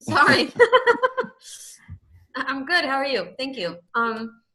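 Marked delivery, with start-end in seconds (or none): 0.0-2.4 talking with a mouthful of food; words round a bite of food; mouth full. Real, not acted. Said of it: "Caught you with your mouth full?". 2.4-2.8 laughing through the words; embarrassed laugh while answering. Real, not acted. Laughing after caught eating.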